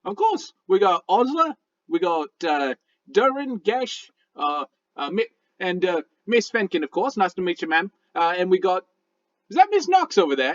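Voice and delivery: talking raccoon, genial. Acted. Raccoon greeting the party by name, genial critter voice. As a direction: greet each one as a folksy little creature.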